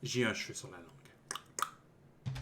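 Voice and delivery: bitten-tongue lisp. Real, not acted. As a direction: talk with a lisp after biting the tongue. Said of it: "Je me suis mordu la langue". (avec un cheveu sur la langue)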